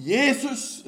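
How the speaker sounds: sudden high, loud cry of "Jesus!"; shouting Jesus. Retold or imitated. Preacher reliving the near crash, crying "Jesus!" high and loud. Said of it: "så roper jeg ut i all min kraft".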